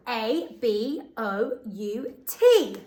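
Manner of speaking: slow letter by letter; spelling aloud. Shown as a demonstration. Teacher spelling the word for pupils to check. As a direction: spell each letter out slowly. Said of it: "let's see if you were right".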